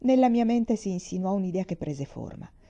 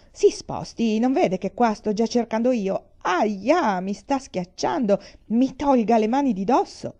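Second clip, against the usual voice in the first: squabbling shout; 4 semitones higher, 4 dB louder than usual. Acted. Customers shoving in the office.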